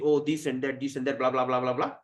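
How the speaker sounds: dismissive low monotone blabbering; mock word jugglery. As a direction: rattle off empty talk in a droning mimicry. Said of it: "some word jugglery, juggle with words".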